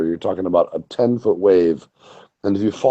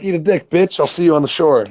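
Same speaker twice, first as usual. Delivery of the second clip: higher, cocky retort tossed back; mock tough comeback; 8 semitones higher than usual. Bodyboarder mocking the surfers who ran him over, cocky.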